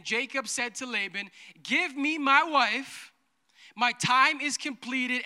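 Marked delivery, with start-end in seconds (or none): 1.6-5.2 eager demand. Retold or imitated. Jacob demanding his wife.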